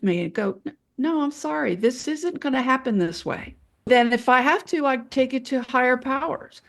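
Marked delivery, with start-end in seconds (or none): 0.7-3.6 firm, understated refusal; very serious. Acted. Nurse answering an aggressive surgeon, serious and firm. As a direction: shut it down seriously, without raising your voice. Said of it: "then I get very serious".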